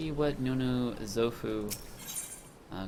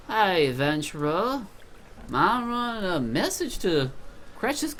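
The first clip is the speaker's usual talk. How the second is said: higher, louder gruff character voice; gruff quest giver; 8 semitones higher, 6 dB louder than usual. Acted. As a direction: play a gruff villager handing out an errand, pitched up. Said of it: "I got the gruff voice from him".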